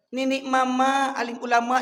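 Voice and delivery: mock softened intonation. Shown as a demonstration. Preacher shows congregation his softened tone, mock-gentle. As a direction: scold in a supposedly softened tone. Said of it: "saya perlu nak bahasanya, intonasinya".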